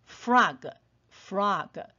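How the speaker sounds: frog with f gliding straight into r; slow, careful frog as one syllable; blended fr in frog. Shown as a demonstration. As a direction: run f into r in "frog". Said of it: "F发F的嘴型就好了".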